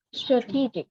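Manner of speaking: "Strategic" as struh-TEE-jik; stress on second syllable. Shown as a demonstration. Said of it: "nó sẽ nhấn trọng âm vào nào ạ".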